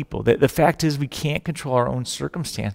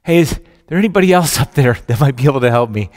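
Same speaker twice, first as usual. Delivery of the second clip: hopeful shout upward; 7 dB louder, faster than usual. Acted. Climber calls upward, fast.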